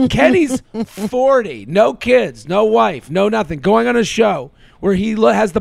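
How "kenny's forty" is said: Kenny's forty, drawn slowly with forty weighted; incredulous emphasis; stress on forty. Real, not acted. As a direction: lean hard on the age.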